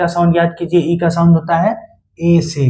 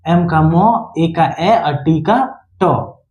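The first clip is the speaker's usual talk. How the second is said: slow sound-out; much slower than usual. Shown as a demonstration. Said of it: "इसका उच्चारण क्या होगा?".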